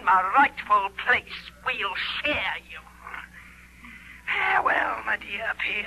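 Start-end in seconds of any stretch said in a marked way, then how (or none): 4.3-5.9 mocking shout. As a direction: fling it at him as a taunt. Witch's parting taunt to Peer.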